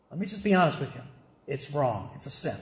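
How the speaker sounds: low, softened pastoral honesty; quiet, frank admission. Real, not acted. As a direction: drop low and soft, confiding hard truth. Confiding admission to the congregation.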